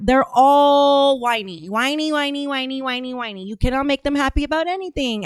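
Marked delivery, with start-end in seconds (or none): 0.0-3.4 sing-song mockery that tapers off; mocking whiners. Real, not acted. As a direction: stretch it out mockingly, then trail away. Mocking whiners with repeated drawn-out word.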